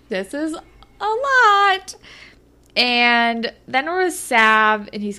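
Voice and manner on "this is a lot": high, slow, laughing; laughing Anya. Retold or imitated. Anya reacting to the limo, laughing high. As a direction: drag it out amused.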